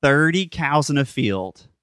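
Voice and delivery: slow, drawn-out riddle with long pauses; deliberate, spaced-out riddle telling. Shown as a demonstration. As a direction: stretch TWENTY, then pause before each next chunk. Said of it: "say it a little slower".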